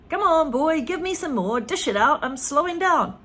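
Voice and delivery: put-on high, loud old woman ordering; Grandma ordering George to dish out medicine; bossy Grandma. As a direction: boss the boy about, high. Grandma demanding another dose.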